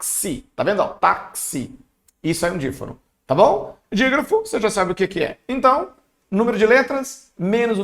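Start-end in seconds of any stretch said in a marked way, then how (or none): 0.9-1.8 "táxi" broken as tak-si; split K-S sound. Shown as a demonstration. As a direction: separate the K and S in "táxi". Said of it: "o X tem som de K e S".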